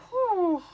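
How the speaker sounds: high, loud exhaled whew; excited whew. Real, not acted. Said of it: "I got really excited there".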